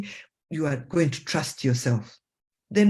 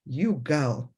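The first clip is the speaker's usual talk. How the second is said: slow, amused self-talk with a chuckle; laughing at yourself; slower than usual. Pretend. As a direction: tease yourself gently with a laugh. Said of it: "Laugh at your own silly mistakes".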